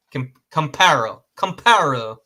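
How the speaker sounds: Camparo with a bit of a put-on French lilt; mock French pronunciation. Shown as a demonstration. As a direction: lightly play at sounding French on Camparo. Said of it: "If you want to try to sound French".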